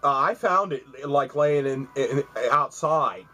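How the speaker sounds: nervous excuses. Retold or imitated. Thief excuses himself, caught.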